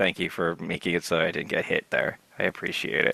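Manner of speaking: very low, grudging, under-the-breath mutter. A begrudging rock in the background thanks the party for not getting hit, under his breath. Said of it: "he says it in a very low breath".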